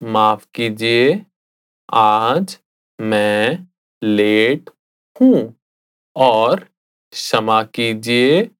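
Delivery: phrase by phrase with pauses; माफ कीजिए said slowly in chunks. Shown as a demonstration. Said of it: "I'll say it again slowly".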